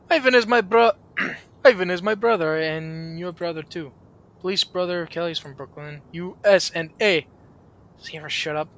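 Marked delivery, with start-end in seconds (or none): 0.1-7.3 a light mock Russian accent, proudly; hammed-up friendly Russian guest. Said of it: "he's Russian".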